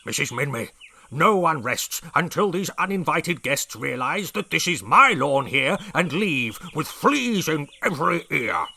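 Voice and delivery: loud, gruff proclamation; angry declaration. A narrator's reading. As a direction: declare it furiously. Furious brig declaring.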